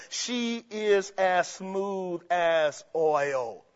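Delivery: slow, soft and silky; smooth oily quote. Acted. Quoting the proverb about the flatterer, slow and silky. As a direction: ooze it out slowly like oil. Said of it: "as the proverb says".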